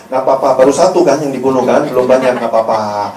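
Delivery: low-pitched, indulgent comfort; tongue-in-cheek consoling pastor; mock reassurance. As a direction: wave the sin away soothingly. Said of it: "mintanya digituin".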